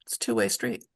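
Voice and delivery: a low whispered aside; soft whispered aside. Real, not acted. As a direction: breathe it out under your breath.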